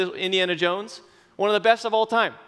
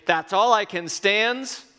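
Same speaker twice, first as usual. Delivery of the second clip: raised, slow cartoon sailor growl; Popeye voice; 6 semitones higher, 4 dB louder, slower than usual. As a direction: ham up Popeye losing patience. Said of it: "he would say".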